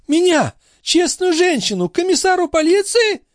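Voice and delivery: put-on high outraged cry of an old concierge; indignant old woman. A narrator's reading. The concierge outraged at Marat's accusation, high indignant cry.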